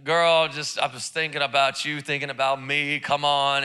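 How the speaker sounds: a hint of a low, flirty husband voice; a touch of sweet talk to his wife. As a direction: lightly coax her, low and sweet. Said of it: "You just gotta be like".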